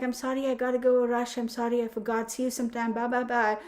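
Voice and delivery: breezy escape, backing away fast; hurried excuse. Retold or imitated. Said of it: "Or I'll be like".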